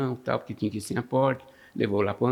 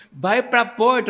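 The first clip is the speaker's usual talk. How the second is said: pilot shouting; 9 semitones higher, 5 dB louder, slower than usual. Retold or imitated. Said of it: "o piloto falava pra gente".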